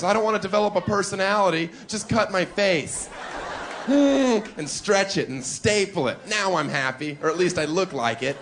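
fast, high, mock-vapid makeover patient; hammed-up plea from a reality show guest. Reality show guest begging the surgeon, mock-vapid and fast. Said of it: "We have shows like Extreme Makeovers".

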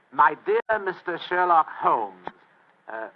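formal dictation with a rising finish; letter dictation. Acted. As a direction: dictate deliberately, swelling into a menacing warning.

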